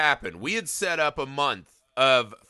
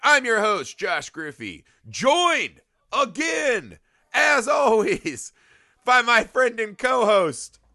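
booming slow ring announcer; pro wrestling voice; 6 semitones higher, slower than usual. Acted. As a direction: stretch every word like a wrestling promo. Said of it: "the pro wrestling voice".

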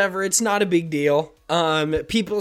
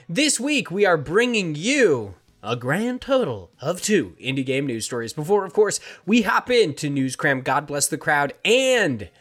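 podcast intro. Real, not acted. Reads the show's opening.

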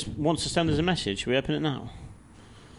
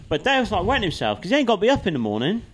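amused, excited telling; 8 semitones higher, faster than usual. Real, not acted. Mocking Dale laughing at him.

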